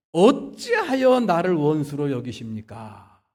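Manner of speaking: slow, loud acted protest; Job's indignant prayer, acted out; angry complaint to God. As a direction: cry out an accusing question, drawn out. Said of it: "승질을 내면서 저주를 퍼붓더니".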